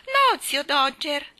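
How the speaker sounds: high, loud, slow telling-off; curt reprimand. A narrator's reading. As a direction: call him to order curtly. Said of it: "lo richiamò Nelly Rubina seccamente". (richiamo secco, a voce alta)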